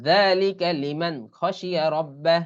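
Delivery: slow, measured tajweed reading; Quran recitation. Shown as a demonstration. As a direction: recite the verse word by word. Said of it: "এগুলো কিন্তু কোরআনের আয়াত". (ধীরে তাজবিদসহ তিলাওয়াত)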